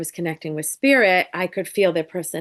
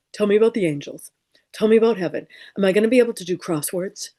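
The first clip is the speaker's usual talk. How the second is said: mock little boy; 3 semitones higher, faster than usual. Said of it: "deep voice, little Johnny".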